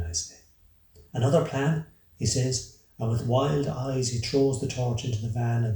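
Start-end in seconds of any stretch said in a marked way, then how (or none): 1.1-1.9 higher, louder questioning echo; startled, raised-pitch question; incredulous echo. A narrator's reading. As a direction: throw it back in disbelief. Disbelieving echo in acted quarrel.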